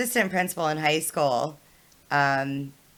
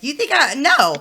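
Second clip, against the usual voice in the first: raised, louder mock outrage; retold indignant refusal; 7 semitones higher, 6 dB louder than usual. Student arguing back at assistant principal, indignant. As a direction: cut yourself off with an indignant refusal.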